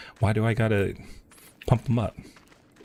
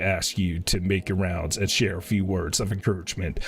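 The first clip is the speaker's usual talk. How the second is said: lightly voiced commander, a little lower and measured; earnest officer; 3 semitones lower than usual. A lightly voiced officer asking the hero to rally the troops, measured. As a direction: read it as a polite officer asking a favour. Reads officer's game dialogue.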